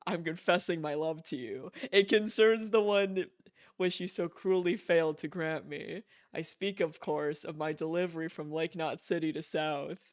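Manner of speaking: lightly voiced, stately letter-writer; formal letter reading. Player reading Higgs's email aloud, mildly formal voice. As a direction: read it like a mildly pompous gentleman's letter.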